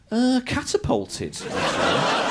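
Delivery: slow, drawn-out casual reply; deadpan relative. Acted. Relative explaining the funeral to a neighbour, slow and casual. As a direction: savour the absurd answer slowly.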